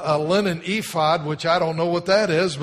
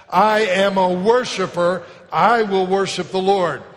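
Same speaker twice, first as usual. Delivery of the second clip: "I" hit loud and slowed, the rest following; stress on the front end; 3 dB louder than usual. Shown as a demonstration. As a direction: congregation call with weight on "I". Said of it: "Say it with me like that".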